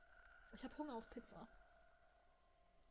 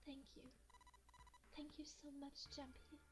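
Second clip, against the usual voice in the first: soft, much quieter, shaky gratitude; trembling thanks; 2 semitones higher, 8 dB quieter than usual. Acted. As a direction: barely hold back tears as you thank him. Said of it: "Her trembling voice pulled at Junpei's heart".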